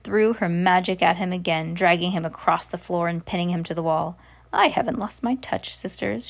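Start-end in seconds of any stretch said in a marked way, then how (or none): 4.5-6.3 cackling. Acted. Witch showing off her magic to sisters, cackling. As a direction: gloat to your sisters, cackling lightly. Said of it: "she said, cackling".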